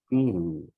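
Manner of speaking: Kiri said again, short and clipped at the end; Quechua kiri. Shown as a demonstration. Teacher repeats the word after the students, careful. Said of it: "Ajá, kiri".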